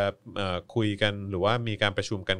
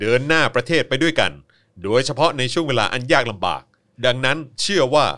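loud, higher, grand leader's voice; handsome-voice Uncle Tu; 5 semitones higher, 11 dB louder than usual. Retold or imitated. Host booms the PM's speech to his co-host in his best handsome voice. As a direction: boom it out like the prime minister's TV address. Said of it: "เอาเสียงหล่อที่สุดได้ไหม".

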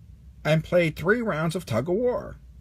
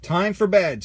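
louder drill order; loud announcement; 5 semitones higher, 6 dB louder than usual. A narrator's reading. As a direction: call lights out firmly. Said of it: "Sarge announced".

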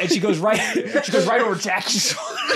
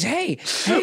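high mock "hey"; put-on high voice hailing a table; imitating the stranger; 7 semitones higher than usual. Retelling how the stranger hailed the group, high imitation. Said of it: "this is how she, she goes".

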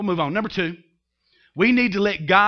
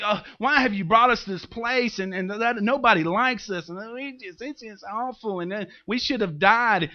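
pious whining; 3 semitones higher than usual. Retold or imitated. Preacher mocking grumbling Israelites, pious and whiny. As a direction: whine like a self-pitying saint. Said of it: "they're so pious, and they're like".

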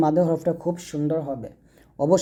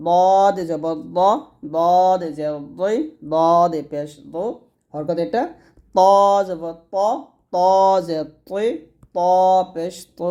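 slow recitation drill; 3 dB louder, much slower than usual. Shown as a demonstration. Teacher recites harakat examples.

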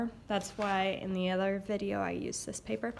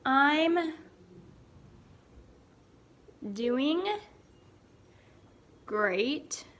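cheerful answer; 3 semitones higher, much slower than usual. Shown as a demonstration. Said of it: "You might even answer it with".

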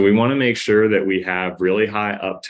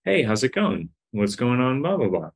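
friendly rising questions, pitched up; uptone questions; 5 semitones higher than usual. Shown as a demonstration. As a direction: ask it bright and rising like you care. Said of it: "With this kind of an uptone swing".

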